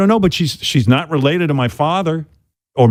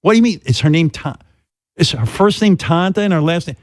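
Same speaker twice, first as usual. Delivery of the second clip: mother voice; 6 semitones higher than usual. Retold or imitated. Son voicing his mother.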